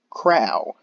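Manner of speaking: a short, loud crow. Acted. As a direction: shout it as if written in all caps. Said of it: "In all caps!".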